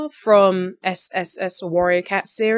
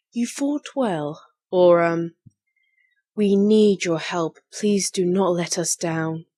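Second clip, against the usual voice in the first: authoritative leader voice; slower than usual. Shown as a demonstration. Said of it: "Kind of, kind of like that".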